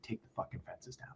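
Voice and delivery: hissed order. Retold or imitated. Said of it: "I was like".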